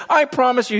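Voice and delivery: God swearing to his people, loud and high; God pleading. Retold or imitated. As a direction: speak as God, insisting passionately. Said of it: "God says".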